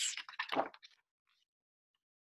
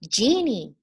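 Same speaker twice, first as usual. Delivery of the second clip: mild shout; 3 semitones higher, 4 dB louder than usual. Acted. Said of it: "he shouted".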